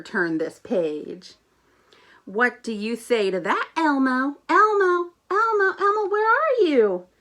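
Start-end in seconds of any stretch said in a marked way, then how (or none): 4.5-7.1 high, loud calling. Acted. Grover discovering Elmo has gone ahead, loud high calling. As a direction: call out, looking for him.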